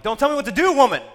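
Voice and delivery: loud, high mock shout at mom; hammed-up yell back at mom; teenage yell. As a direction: belt it out like a defiant teen. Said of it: "so I yelled at my mom".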